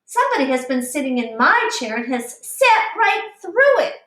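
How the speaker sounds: hint of a small bear's complaint; little wee bear crying. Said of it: "cried the little wee bear in his little wee voice".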